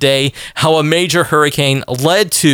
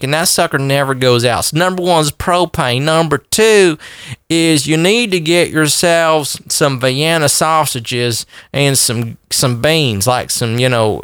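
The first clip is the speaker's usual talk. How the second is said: put-on Southern cracker accent; 2 semitones higher than usual. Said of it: "put on my cracker voice".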